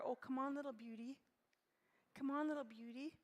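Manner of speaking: put-on fond, coaxing call to a little girl; tender coaxing. Shown as a demonstration. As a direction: coax her sweetly, like praising a child. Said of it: "And I talk to her like that".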